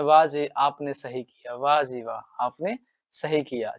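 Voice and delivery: put-on mischievous boy praising. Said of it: "है ना?".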